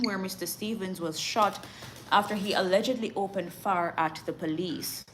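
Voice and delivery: measured newsreader delivery; news read. Acted. Newsreader reports a road crash to viewers, formal news read.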